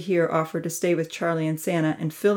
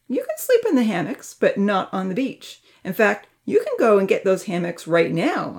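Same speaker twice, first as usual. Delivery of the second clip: firm; 3 semitones higher, 4 dB louder than usual. Acted. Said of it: "Uncle Louis stated firmly".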